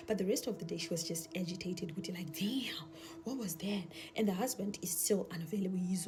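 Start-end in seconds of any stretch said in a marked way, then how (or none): 2.4-3.9 slow, shaken whisper; whispered to herself after the scare. Retold or imitated. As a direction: breathe it out slowly, still rattled. Shaken wife muttering to herself.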